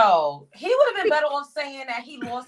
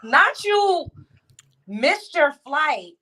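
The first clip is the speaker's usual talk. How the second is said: mocking; 4 semitones higher, 4 dB louder, slower than usual. Real, not acted. Mocking the streamer.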